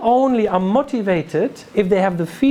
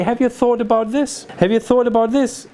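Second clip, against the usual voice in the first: raised, inviting question tune; 3 semitones higher than usual. Shown as a demonstration. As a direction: lift the voice on THIS as a question. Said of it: "make it in a question".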